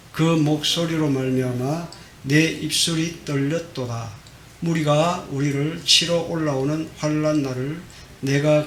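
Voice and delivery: slow, measured Bible reading; scripture reading. Acted. 목사가 성도들과 함께 성경 구절을 낭독하듯, 천천히. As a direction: read the verse together, unhurried. Reads scripture aloud together.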